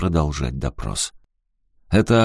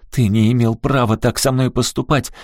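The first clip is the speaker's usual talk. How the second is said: high, indignant cry; raised, angry voice; shouting; 6 semitones higher, 3 dB louder than usual. A narrator's reading. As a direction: shout the protest. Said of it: "крикнула Аляска".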